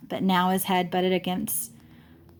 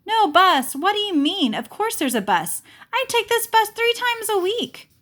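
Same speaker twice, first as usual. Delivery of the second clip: put-on high, fragile old woman's voice; puzzled old woman; 13 semitones higher, 3 dB louder than usual. Grandma explains to the children she waits for the bus, high and puzzled. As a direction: sound lost and patient.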